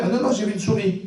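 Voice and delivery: high put-on wife voice, flustered; wife's voice. Wife explaining to her husband she saw a mouse. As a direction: play the startled wife.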